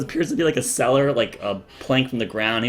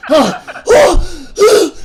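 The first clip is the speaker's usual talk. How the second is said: high, loud breathless laughs; laughing mother; 13 dB louder, much slower than usual. Acted. Mother laughing after releasing her son, high pitched. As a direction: giggle it out.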